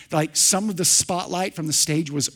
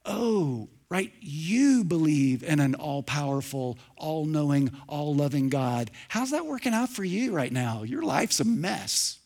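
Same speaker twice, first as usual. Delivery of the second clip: mocking skeptic. Preacher voices a scoffer ridiculing a believer, mocking. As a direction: play the scoffer sneering at someone's faith.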